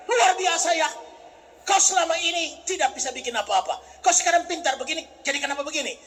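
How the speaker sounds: a hint of an amazed God; God speaking. God praising the preacher, lightly voiced amazement. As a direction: marvel lightly at the change. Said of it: "Tuhan Allah bilang".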